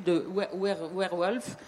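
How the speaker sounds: werewolf said with a southern French accent. Shown as a demonstration. Lecturer playing with his southern French accent on werewolf. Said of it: "avec mon accent du sud".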